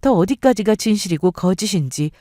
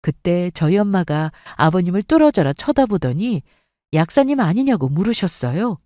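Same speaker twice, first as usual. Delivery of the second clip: ordinary delivery, nothing marked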